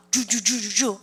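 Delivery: "주주주주주" as a quick repeated joo; DR sound drill. Shown as a demonstration. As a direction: drill "주주주주주" in one linked string. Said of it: "그렇게 연음하는 거". ("주주주주주" 연음으로 이어서)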